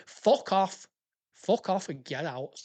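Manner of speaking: curt, annoyed send-off; fed-up, emphatic rejection; annoyed dismissal. Real, not acted. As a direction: dismiss them in exasperation. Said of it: "I'm just getting annoyed".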